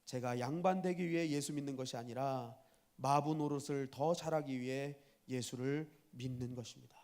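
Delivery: lightly voiced earnest servant; low, measured, deferential reply; servant's answer. Groom correcting his mocking master, lightly voiced and respectful. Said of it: "이렇게 대답을 합니다".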